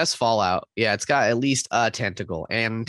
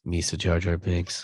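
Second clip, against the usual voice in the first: Jar Jar voice; 4 semitones lower than usual. Retold or imitated. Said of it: "Jar Jar quotes in your best".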